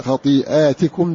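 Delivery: خطيئاتكم with long "aa" and "ti" on ت; kasra on taa. Shown as a demonstration. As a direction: say خطيئاتكم as "khatii'aatikum". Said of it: "بكسر التاء".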